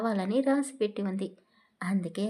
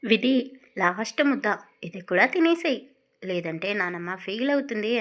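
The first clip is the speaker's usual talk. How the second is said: louder, through a forced grin; forced laugh; 5 dB louder than usual. Acted. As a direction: coax her with a fake laugh. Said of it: "బలవంతపు నవ్వు నవ్వుతూ".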